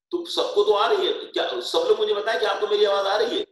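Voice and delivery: loud, high call to the whole class; calling out loudly. Real, not acted. Teacher loudly asks online class if they hear. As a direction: raise the voice so every student hears.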